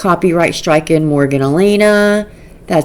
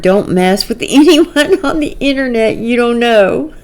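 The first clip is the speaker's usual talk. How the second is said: laughing through reading; 6 semitones higher, 3 dB louder than usual. Real, not acted. Reading comment while laughing.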